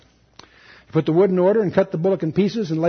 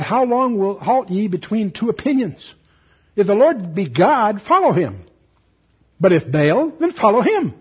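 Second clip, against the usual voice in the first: slow, deliberate public challenge, raised voice; prophet's challenge; 3 semitones higher, 4 dB louder than usual. Acted. Elijah confronting all the people over two opinions, declaimed challenge. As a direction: declaim it with weighty pauses.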